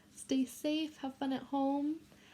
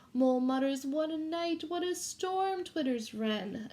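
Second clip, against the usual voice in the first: put-on reading a picture book to children; gentle read-aloud for a class; story reading; 3 semitones higher than usual. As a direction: read it like storytime for little kids.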